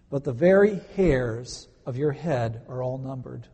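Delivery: measured, deliberate Bible reading; scripture reading. Acted. Pastor reads the promise to his congregation, solemn reading.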